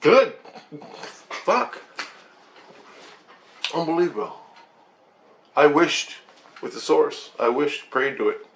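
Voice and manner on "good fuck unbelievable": elated disbelief. Retold or imitated. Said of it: "And I'm like".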